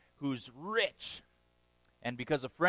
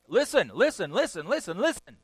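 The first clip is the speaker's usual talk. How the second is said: loud, higher insistent pleading; urgent repetition; 7 semitones higher, 8 dB louder than usual. Real, not acted. Preacher urging his hearers, loud and high. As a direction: hammer the word home. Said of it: "preaching at full force".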